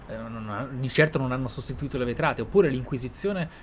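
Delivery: usual speaking voice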